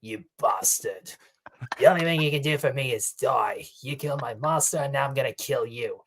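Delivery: lightly put-on British villain accent; a hint of a British movie villain; mock British accent, menacing. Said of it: "his British accent".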